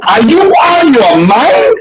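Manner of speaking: high, drawn-out disbelief; incredulous. Retold or imitated. Comic objecting to the organizer's crazy plan, incredulous. Retelling his shocked objection to her.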